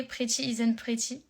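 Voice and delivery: English title in a terrible French accent; deliberately bad accent. Shown as a demonstration. Streamer avoiding embarrassment over her English, deliberately bad French accent. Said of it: "avec le pire des accents".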